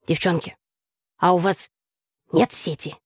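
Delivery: mildly pitiful request; plaintive. A narrator's reading. Classmate asks the girls for help, plaintively. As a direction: ask like someone begging a small favour. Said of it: "жалобно проговорил Симонов".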